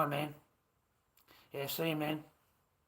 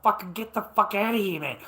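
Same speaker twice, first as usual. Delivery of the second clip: loud retold shout telling him to get lost; mock shout; 8 semitones higher, 8 dB louder than usual. Retelling the chat, shouting the guy off. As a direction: bark it out like you mean it.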